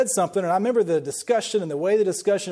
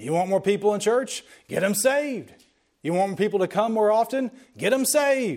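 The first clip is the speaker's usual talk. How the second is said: put-on booming delivery; 3 semitones higher than usual. Retelling a man's repeated advice at an ordination: retelling a booming voice. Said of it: "his booming voice".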